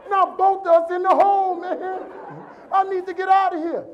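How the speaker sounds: loud, high, hammed-up desperation; panicked yelling. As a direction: wail in exasperation at being trapped. Acted panic, trapped with friend.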